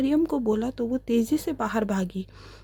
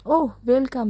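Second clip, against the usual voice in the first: smiling welcome; 4 dB louder than usual. A narrator's reading. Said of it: "नूर मुस्कुरा कर बोली".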